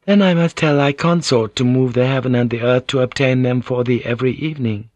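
Mariko, playful. Acted. Narrator voices Mariko in dialogue.

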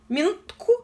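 calling for a pause. A narrator's reading. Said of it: "отозвалась здравомыслящая девица".

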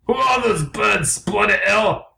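slow, high English bird; unconvincing English accent. Acted. Blue asks about the birds, slow English accent. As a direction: draw it out as a put-out Englishman. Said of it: "very Englishmen".

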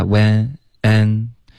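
WHEN said with an "eh" vowel instead of "ah"; mispronunciation demo. Shown as a demonstration. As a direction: show WHEN, N, WENT as the wrong sound for "want". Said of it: "别发when". (示范错读：when 发成"哎"的口型)

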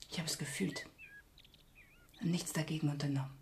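guilty whisper. Acted. Mother confessing guilt.

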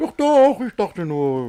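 sudden high, loud doch doch; startled protest. Acted. Man startled by the suitor's question, flustered high protest. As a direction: jump in flustered, caught out. Caught off guard, startled reply.

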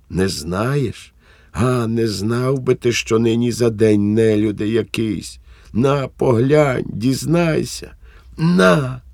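thrust the letter at him, sneering; wife throwing the letter at husband in fury; bitter fury. Acted.

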